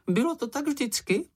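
high, squeaky little animal voice; Sniff's voice. A narrator's reading. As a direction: pitch it up as the small Sniff. (vysoký pištivý hlásek Čenicha)

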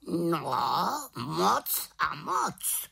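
high, very slow raven cry; raven exclaiming. A narrator's reading. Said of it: "zvolal Havran". (vysoké pomalé zvolání havrana)

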